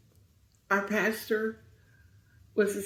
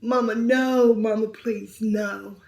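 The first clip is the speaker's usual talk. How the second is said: hysterical pleading; 2 semitones higher, 6 dB louder, slower than usual. Retold or imitated. Daughter begging her mother after the crash, panicked. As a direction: beg in rising panic. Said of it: "she was hysterical".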